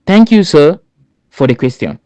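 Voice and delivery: courteous opening, the thank you lifted high; polite thanks. Shown as a demonstration. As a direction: open by politely thanking the jury. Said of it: "You start by saying".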